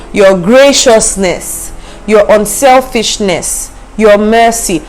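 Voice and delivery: slow, savoring the virtues; scripture reading. Shown as a demonstration. Preacher dwelling on the Amplified words, slow. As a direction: draw out graciousness. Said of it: "It says".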